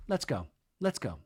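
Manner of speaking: calm, slightly softened delivery; understated calm resolve; mock calm. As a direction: say it quietly and evenly, imitating composure. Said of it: "Nia just very calmly goes".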